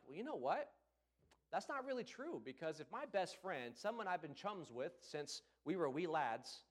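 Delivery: a light put-on English accent; a hint of English accent when saying chums and wee lads. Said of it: "don't know why I went English on there".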